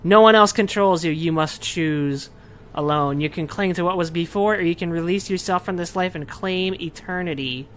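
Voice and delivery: a lightly voiced solemn guide; dream guide. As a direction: intone it like a calm oracle.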